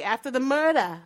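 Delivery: murder said with a New York accent. Shown as a demonstration. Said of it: "My New York accent almost slipped out".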